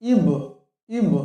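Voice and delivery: ইব with the ব bounced out at the end; ইব, closing ব rebounds with a knock; ইব with a clear qalqalah bounce; qalqalah reading. Shown as a demonstration. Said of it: "এমন কলকলা করে পড়তে হবে".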